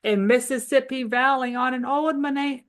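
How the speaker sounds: rhythmic nursery rhyme reading; poem read to children. Acted. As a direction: read the verses with bouncy rhythm. Reading poems aloud to children.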